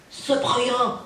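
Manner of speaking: high, mock yelled plea through a door; mock yell from the girlfriend. Girlfriend shouting from the dressing room, mock yelled plea. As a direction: call out high like she's banging on the door. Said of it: "Elle me criait".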